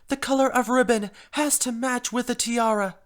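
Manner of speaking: drama queen. Acted. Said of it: "Being the drama queen as I am".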